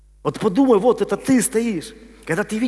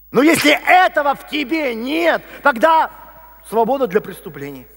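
higher, forceful sermon delivery; emphatic preaching; 4 semitones higher than usual. Acted. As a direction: drive home each key word to the congregation.

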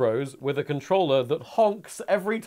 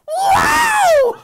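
high R2 squeal; 6 dB louder than usual. Retold or imitated. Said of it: "he's like".

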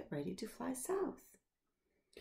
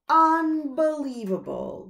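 mouse; 6 semitones higher, 11 dB louder than usual. Acted. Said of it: "says the mouse".

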